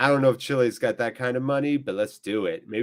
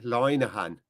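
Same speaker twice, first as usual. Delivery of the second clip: "Linehan" with an Irish first vowel, like "loy"; Irish accent. Pretend. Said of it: "trying to work on my Irish accent".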